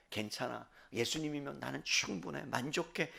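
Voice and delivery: soft, low, soothing self-assurance; quietly at ease, voice dropped low; calm contentment. Acted. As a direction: say it gently, hushed and at peace. Acted contented reply to being wronged.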